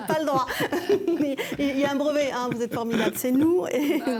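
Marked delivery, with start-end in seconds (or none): 0.1-2.3 laughing. Real, not acted. Host laughs at joke.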